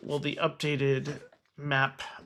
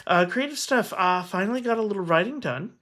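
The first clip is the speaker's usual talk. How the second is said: higher, livelier and quicker; energy brought back up; 5 semitones higher than usual. Real, not acted. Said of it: "trying to bring the energy back up".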